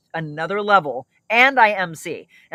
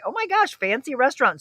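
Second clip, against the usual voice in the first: excited squeal; 8 semitones higher than usual. Real, not acted. Reacting to viewers' fancy votes.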